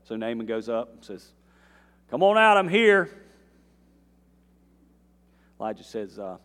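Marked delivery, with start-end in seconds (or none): 2.1-3.1 loud, high summons at the door; calling out. Retold or imitated. Naaman demanding the prophet come out, loud call.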